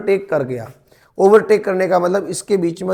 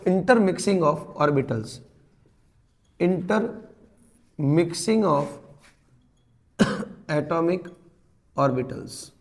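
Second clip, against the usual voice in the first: very slow, softer dictation of a term; 6 dB quieter, much slower than usual. Shown as a demonstration. Teacher dictating a simple term for students to write. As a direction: drag each word out for note-taking. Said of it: "simple भाषा में तुम क्या बोल सकते हो".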